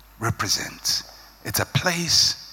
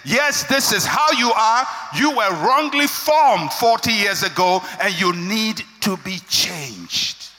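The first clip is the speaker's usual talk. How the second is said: stern corrector; 4 semitones higher, slower than usual. Retold or imitated. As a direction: confront them plainly and hard. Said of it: "somebody has to sit you down and say".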